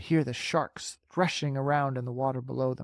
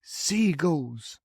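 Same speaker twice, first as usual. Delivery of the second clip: calm; 3 semitones higher than usual. Acted. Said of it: "James answered calmly".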